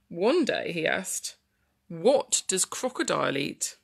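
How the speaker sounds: slow, lilting story narration; storytelling to children. Acted. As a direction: read slowly, stretching key words for little listeners.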